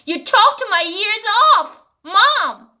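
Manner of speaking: put-on a light childish whine at mom; child complaining to mom. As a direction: kid fed up with nagging. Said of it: "아이들 이렇게 말할 것 같아요". (엄마에게 투정 부리는 아이)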